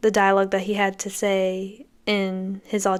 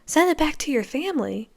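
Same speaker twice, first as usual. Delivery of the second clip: mock outrage; 7 semitones higher than usual. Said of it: "Blake's, like, outraged by that".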